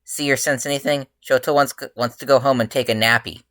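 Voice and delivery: calling to ghosts, teasing about naps. A narrator's reading. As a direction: call out across the rooftop.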